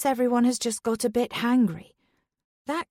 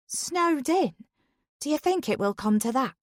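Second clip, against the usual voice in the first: surprised; 4 semitones higher than usual. Acted. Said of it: "Dawn asks".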